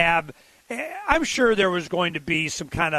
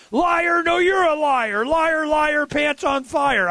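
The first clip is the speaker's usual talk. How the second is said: high, mock-childish taunt; singsong taunt, drawn out at the end; mocking debate jab; 9 semitones higher, much slower than usual. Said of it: "in the beginning, first few minutes".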